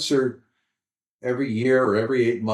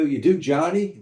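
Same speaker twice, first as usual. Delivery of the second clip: higher-pitched hopeful question; very optimistic; 4 semitones higher than usual. Retold or imitated. Audience member to comic after the show, very optimistic. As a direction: imitate eager fans asking. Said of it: "very optimistic".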